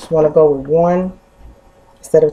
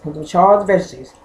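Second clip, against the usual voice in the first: mouth full. Real, not acted. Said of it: "Can't talk with the mouth full".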